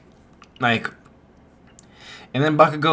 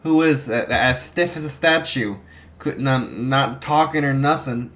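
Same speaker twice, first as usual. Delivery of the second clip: defensive Bakugo; 3 semitones higher than usual. Retold or imitated. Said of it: "He's like".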